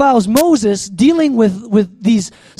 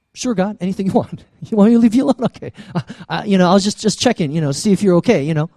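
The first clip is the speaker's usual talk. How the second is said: hurried, backpedalling deference; mock meek compliance; much faster than usual. Preacher as Moses answering an angry God, meekly backing off. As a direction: give in at once, playfully timid.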